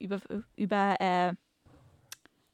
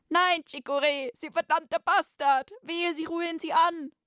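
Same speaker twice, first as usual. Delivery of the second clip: much higher, louder hammed-up furious hero; 11 semitones higher, 4 dB louder than usual. Captain warns the villain off the woman, hammed-up furious shout. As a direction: roar the threat at the villain, melodrama style.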